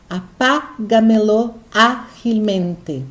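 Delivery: "Apágamelo ágilmente" slowly, leaning on pá and á; slow teacher's "Apágamelo ágilmente" with marked stressed syllables; syllable stress demo. Shown as a demonstration. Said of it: "tá depois da esdrúxula".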